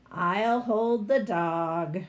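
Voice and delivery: slow, weary give-in; slow sigh of giving in. Acted. Girl sighing as she agrees to the trolls, slow and weary. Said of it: "I said, sighing".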